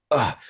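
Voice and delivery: exasperated "ugh"; short huff of annoyance; huffy grunt. Acted. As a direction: let out a fed-up grunt. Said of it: "goes in a huff".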